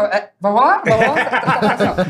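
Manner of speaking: drawn-out question broken by laughter; slowly asking through a laugh; laughing tease. Real, not acted. Teasing his friends while laughing.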